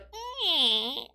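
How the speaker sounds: high, quiet pushing grunt; a small effortful squeeze; man feeling something coming on; strained little grunt. Retold or imitated. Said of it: "I feel a little bit of, like".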